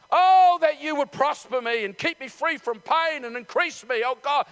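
impassioned plea to God; passionate prayer. Acted. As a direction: pray it out with force, opening on a long oh. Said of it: "The passion in your voice".

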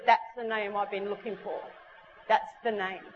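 low, tender retold realisation; reverent. Girl told his name after long searching, low and reverent. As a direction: let it land low and heartfelt.

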